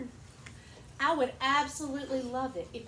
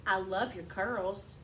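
slow warm compliment; 4 semitones lower, slower than usual. Shown as a demonstration. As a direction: say it like a kind compliment to a child. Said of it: "What if I say".

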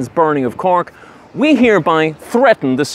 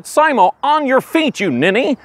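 scolding; 11 semitones higher than usual. Acted. Scolding a crying colleague.

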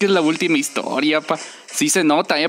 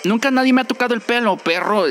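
offended character; 5 semitones higher than usual. Acted. Reads game character's lines.

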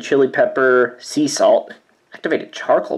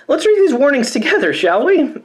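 theatrical host; 12 semitones higher than usual. Pretend. Mock host before reading warnings.

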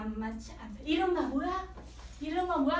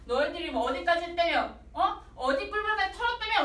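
higher, pressing cop voice; pushy cop; 3 semitones higher than usual. Retold or imitated. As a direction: needle the suspect, rising each time. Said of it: "막 이런 식으로 얘기를 하는 거지".

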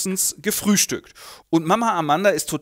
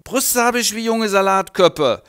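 put-on loud, slow and higher drunken brag; drunken boast; 6 semitones higher, 6 dB louder than usual. Drunk maid bragging to Heinrich, loud and slow. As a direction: brag it slowly, drunk and pleased.

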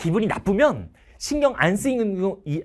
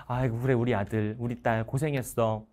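tender praise; 7 semitones lower, 6 dB quieter than usual. Retold or imitated. Parents praising a tired student.

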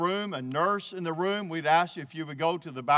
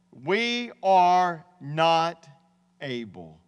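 1 drawn-out quote; much slower than usual. Retold or imitated. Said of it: "notice what they said".

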